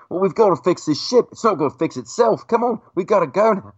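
a hint of a cheerful English co-star; Peter Mayhew English accent. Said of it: "Peter Mayhew's like".

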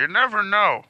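put-on old man voice. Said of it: "Stop talking like an old man".

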